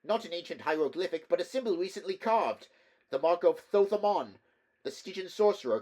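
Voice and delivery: high, tense, fearful voice; fearful clerk. Acted. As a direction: warn them, rising dread. Terrified clerk warns of horror.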